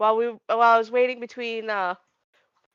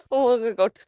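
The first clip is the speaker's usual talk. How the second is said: talking through a mouthful of food; words round a bite of food; mouth full. Real, not acted. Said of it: "talk with my mouth full".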